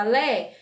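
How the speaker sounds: LÉ with open e; open vowel. Retold or imitated. Teacher voicing a child's reading slip, LÉ with open e. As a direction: imitate the child's mistake, LÉ with e open. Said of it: "não é lé".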